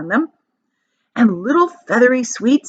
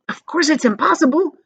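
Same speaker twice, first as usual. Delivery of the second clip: raised, delighted exclamation; emphatic cry; 7 semitones higher than usual. Acted. Grandpa Joe answering Charlie, emphatic cry. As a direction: cry it out with relish. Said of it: "cried Grandpa Joe".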